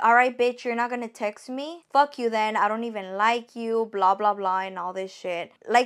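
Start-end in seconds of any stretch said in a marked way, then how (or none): none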